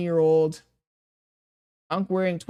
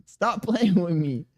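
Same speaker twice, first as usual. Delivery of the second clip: real laugh breaking the protest; slower than usual. Real, not acted. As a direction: laugh through it, slower. Laughing at chat's teasing.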